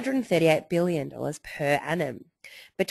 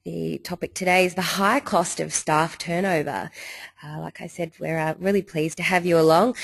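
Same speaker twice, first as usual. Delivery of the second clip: hoarse, croaky throat; speaking through a sore, croaky throat. Real, not acted. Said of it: "uh, croaky voice".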